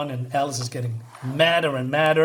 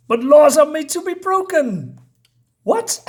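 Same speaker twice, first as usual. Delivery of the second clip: louder and higher, a laugh breaking into the line; laughing mischief; 11 semitones higher, 5 dB louder than usual. Retold or imitated. Walrus laughing as he tells the court laws are broken. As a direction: chuckle it out like a rule-breaker. Walrus gleefully bends the law.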